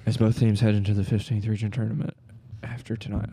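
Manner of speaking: a hint of a TV sports announcer reading the news; lightly voiced newscaster, self-mocking; mock sportscaster. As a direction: play at being a local sports anchor. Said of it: "Okay, that sounds awful".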